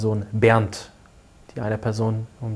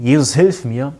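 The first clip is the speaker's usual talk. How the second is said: retold scream; 5 dB louder, slower than usual. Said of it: "habe geschrien".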